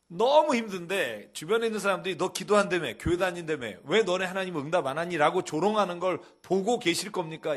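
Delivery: anguished outcry. Acted. Preacher voicing the psalmist's complaint to God, loud pleading outcry. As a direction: cry it out to God in distress.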